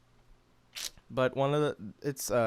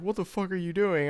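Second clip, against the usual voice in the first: parents' mock shout; 7 semitones higher than usual. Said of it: "They're like".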